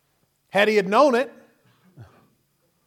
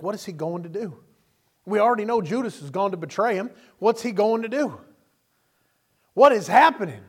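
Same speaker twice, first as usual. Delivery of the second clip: growing alarm; 4 semitones higher, 4 dB louder than usual. Retold or imitated. Angels watching in Gethsemane, worry growing to a loud cry. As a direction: build the anxious questions to a loud outburst.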